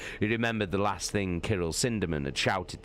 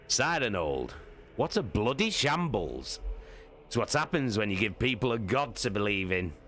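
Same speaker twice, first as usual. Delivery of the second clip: exasperated Torgadon; 4 semitones higher than usual. Acted. Torgadon grumbles to Loken about the shambles, higher and exasperated. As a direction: spit out the frustration.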